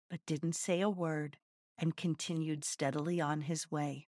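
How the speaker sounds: story narration. A narrator's reading. Reads a fable aloud.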